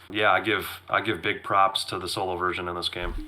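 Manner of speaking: slightly hoarse, strained voice; losing voice. Real, not acted. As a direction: voice going hoarse. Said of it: "I'm losing my voice here".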